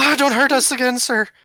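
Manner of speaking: shrill, very high, loud, frightened pleading. Voicing a captive freed of a mouth guard: pleading in fear. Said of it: "and she's like".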